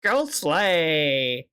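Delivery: lightly put-on stereotyped gay voice, drawn out; mock-effeminate quote with stretched vowels. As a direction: imitate an exaggerated gay affectation, stretching the words. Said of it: "they don't talk like that".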